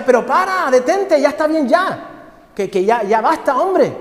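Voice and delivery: high, loud begging to stop; cup pleading loudly. Acted. The cup choking on paint begs its master, high and loud. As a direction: cry out against the paint fumes. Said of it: "Y yo le decía".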